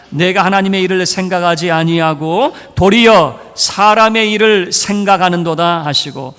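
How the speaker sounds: unison scripture reading. Acted. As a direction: read it out steadily with the church. Congregation reads scripture aloud.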